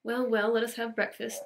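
a touch of a brisk housekeeper; brisk stern woman. Acted. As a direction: cut in briskly, no nonsense. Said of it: "interrupted Marilla".

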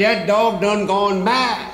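high, slow, mock-alarmed cry; hammed-up fright at a mad dog; terrified banker up a tree; panicked.

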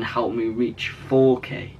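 slow, deliberate "Help me reach four K"; slow announcement. Shown as a demonstration. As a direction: spell out "four K" slowly. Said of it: "I never thought I'd be saying".

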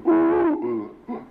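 sung-out "ooh" imitating a low tube sound; demonstrated hooting. Shown as a demonstration. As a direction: hoot like a cardboard tube, meant as the low one. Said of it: "and a low one".

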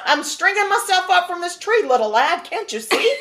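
a light put-on Southern Irish accent, half laughing; mock Southern Irish accent. Man shooing a kid off, in a playful Southern Irish accent. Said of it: "that's my Southern Ireland accent coming out".

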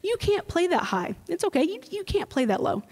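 lightly mocking, soothing teacher; dismissive teacher. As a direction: shrug it off like a lazy band director. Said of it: "the teacher would just say".

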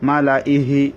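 slow "মালাইহি" with laa kept short; correct recitation. Shown as a demonstration. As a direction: recite "মালাইহি" moving quickly from la to i, long hii. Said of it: "হবে".

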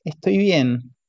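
choked, martyred "Estoy bien"; a hint of a martyred wife. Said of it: "Lo dice con voz cortada, con tono de mártir".

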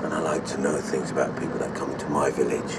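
my village, with weight on my; menacing local boss leans on my to warn the newcomer; stress on my. Acted. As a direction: lean on the word my, possessive and pointed. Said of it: "Notice how I'm emphasizing on the word my".

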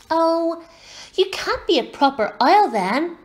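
put-on high-pitched child's objection; challenging little girl. A narrator's reading. Little girl doubts he is a proper owl, challenging.

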